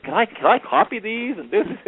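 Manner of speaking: high-pitched eager asking; very excited. Retold or imitated. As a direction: imitate an eager, excited clerk. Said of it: "very excited".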